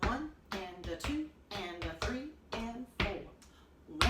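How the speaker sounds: slow count, leaving a gap before each beat; slow count with an audible pause. Shown as a demonstration. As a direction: count it out slowly, letting the pause hang. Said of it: "big pause in between them".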